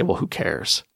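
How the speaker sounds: a defeated victim muttering who cares; victim's shrug. Retold or imitated. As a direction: drop it like you've given up. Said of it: "they cross their arms because they realize they got a lousy life".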